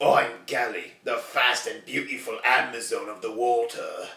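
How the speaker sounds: slow, drawn-out put-on Cockney voiceover accent. Imitating a male voiceover that introduces a female character: put-on Cockney accent. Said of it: "I don't know why a Cockney accent came out there".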